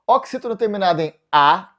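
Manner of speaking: ordinary delivery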